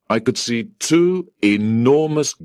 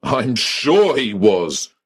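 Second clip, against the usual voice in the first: angry sarcasm; 2 semitones higher, slower than usual. Acted. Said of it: "I said angrily".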